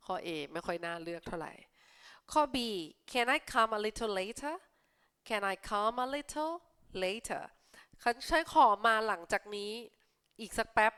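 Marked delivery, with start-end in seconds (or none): 3.1-4.6 slow, careful read-aloud; slow clear classroom read. Shown as a demonstration. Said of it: "reads option aloud slowly". 5.3-7.4 slow, careful read-aloud; slow clear classroom read. Shown as a demonstration. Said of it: "repeats phrase slowly".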